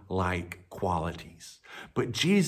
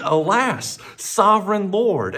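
higher, louder dismayed exclamation; exclaimed; 7 semitones higher, 5 dB louder than usual. Acted. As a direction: gasp it out in alarm, Alas. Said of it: "he exclaimed".

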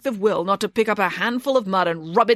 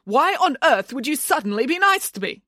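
high, insistent string of questions; mounting disbelief, pitched high; suddenly alarmed; 9 semitones higher than usual. A narrator's reading. Nanny suspicious of rival's sudden niceness, alarmed. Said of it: "suddenly alarmed".

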